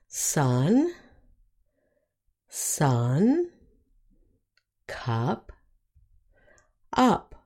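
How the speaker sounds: sun, sun, cup, up with a short "uh"; short U examples. Shown as a demonstration. Teacher giving words with short U, careful modelling. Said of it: "the last short vowel sound is".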